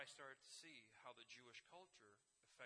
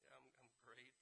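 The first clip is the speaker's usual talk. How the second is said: unenthusiastic reply; 9 dB quieter than usual. Retold or imitated. Unenthusiastic answer to happy guide.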